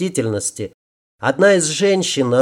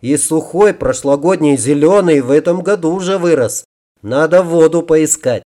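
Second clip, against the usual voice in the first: acted delight, starting high and strong; pleased exclamation; 3 semitones higher than usual. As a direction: exclaim over a welcome find. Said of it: "довольно воскликнул".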